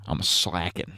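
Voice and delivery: lightly voiced Trump; a hint of Trump; Trump impression. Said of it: "my Trump impression".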